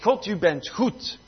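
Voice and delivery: slow, emphatic proclamation; emphatic declaration. Acted. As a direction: declare it slowly and firmly. Declaring it after urging "speak it.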